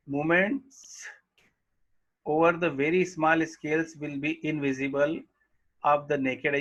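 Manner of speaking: reading the English line very slowly; slow textbook reading. Acted. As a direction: dictate each word to the class. Reads textbook line aloud slowly. (पाठ्यपुस्तक से धीरे-धीरे पढ़ना)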